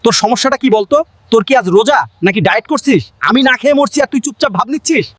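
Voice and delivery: mild, quick threatening scold; a touch of hungry anger, quickly spoken. Acted. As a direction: tell it off in a fast rush. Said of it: "শাসিয়ে ধমক দিয়ে সাজু বলল".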